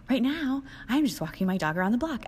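high, loud, peppy mock cheer; hammed-up enthusiastic texter; mock over-eager. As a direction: bounce it like an overexcited puppy. Reading the over-eager guy's text.

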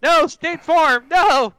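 high, slow, loud wail; hammed-up despair; mock anguished cry.

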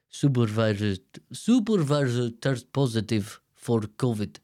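imitated Arab-accented English; Fazil's Arab accent. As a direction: put on a halting Arab accent. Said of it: "I don't know why it's an Arab accent".

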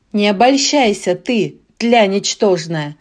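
loud thundering barbarian. Acted. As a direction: boom it out. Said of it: "прогремел варвар".

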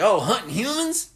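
lightly voiced killer; Otis home movie. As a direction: gloat about hunting. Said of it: "he's like".

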